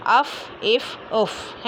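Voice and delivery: short vowel, then a held airy f in अफ, इफ, उफ; letter fa demonstrated. Shown as a demonstration. Teacher showing students where fa comes from, careful articulation. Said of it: "दो दांतों के किनारे से अदा होता है".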